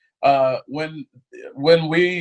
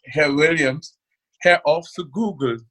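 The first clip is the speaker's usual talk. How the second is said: German doctor; 3 semitones higher than usual. Retold or imitated. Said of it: "and then she said".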